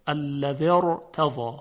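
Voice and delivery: slow الذی ارتضی with a full, thick ra; heavy ra. Shown as a demonstration. Teacher demonstrates tafkhim across two words, heavy ra. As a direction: join الذی to ارتضی, ra held heavy not thin.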